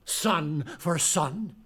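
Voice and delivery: slow, weighty prophecy, each word set apart; slow ominous doom. Acted. Blind seer slowly pronouncing doom on the king. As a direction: lay down the curse slowly and deliberately.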